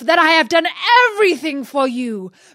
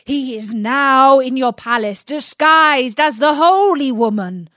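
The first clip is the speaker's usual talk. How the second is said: loud, high, furious rant; angry genie; 3 semitones higher, 4 dB louder than usual. Acted. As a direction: rage at the master, louder and higher. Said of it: "he cried".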